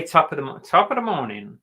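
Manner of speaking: Irish attempt coming out American; failed Irish accent. Shown as a demonstration. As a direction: try Irish but sound American. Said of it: "That was not Irish".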